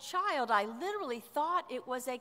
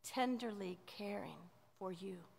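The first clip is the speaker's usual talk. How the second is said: soft, hushed and caring; gentle whispered care; tender whisper; 4 semitones lower, 7 dB quieter than usual. Acted. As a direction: whisper it like soothing a child. Describing tender nursing care.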